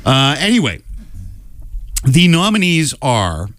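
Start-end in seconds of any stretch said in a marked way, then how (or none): 2.0-3.5 awards-show announcement. Real, not acted. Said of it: "you sounded so Academy Awards".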